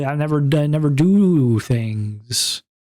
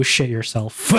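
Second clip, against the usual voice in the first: cracking up mid-line; laughing. Real, not acted. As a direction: laugh while saying it. Laughing through rude line.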